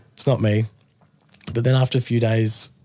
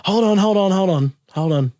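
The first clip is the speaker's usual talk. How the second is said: loud, high call to stop; 9 semitones higher, 4 dB louder than usual. Retold or imitated. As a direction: halt the band loudly. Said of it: "then he goes".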